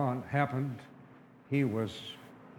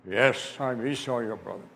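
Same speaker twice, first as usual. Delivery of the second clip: Esau; 4 semitones lower than usual. Acted. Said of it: "he didn't like my voice".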